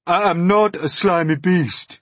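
high, loud, stressed denial; indignant earthworm. Acted. Earthworm rebutting centipede's insult, indignant. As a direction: protest loudly, leaning on "not".

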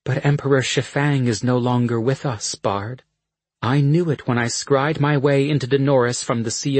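stern dark sorceress; cold sorceress voice. Acted. Dark Asha answers the Bard.

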